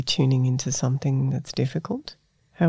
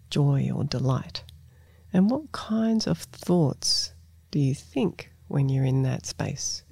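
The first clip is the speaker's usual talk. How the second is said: guided reflection. Acted. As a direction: ease them into noticing their body.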